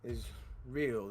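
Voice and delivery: stunned denial. Acted. Insists the dead man is unreal.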